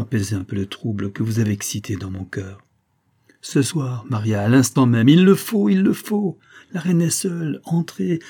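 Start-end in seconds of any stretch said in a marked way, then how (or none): 3.4-8.2 higher, forceful urging; urgent insistence. A narrator's reading. Officer pushes Maria toward the queen, urgently. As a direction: press her to act this instant. Officer urges her to act now.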